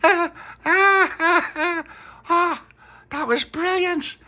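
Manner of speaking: high giggling squeals, then delighted; thrilled child laughing. Acted. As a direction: giggle breathlessly after the ride. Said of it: "No, she's laughing".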